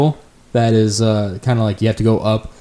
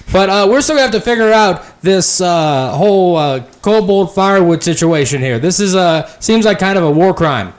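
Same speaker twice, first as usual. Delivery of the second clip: lightly voiced elf, unconvinced; suspicious elf; 9 semitones higher, 5 dB louder than usual. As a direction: elf rider doubting the firewood story.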